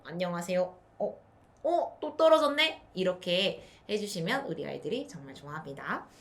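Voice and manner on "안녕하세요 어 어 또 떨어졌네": 어? rising high, 또 떨어졌네 loud; mock surprise again. Shown as a demonstration. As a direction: play astonished for the toddler. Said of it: "다시 한번 올리고". (또 떨어진 척 높은 목소리로 놀라며)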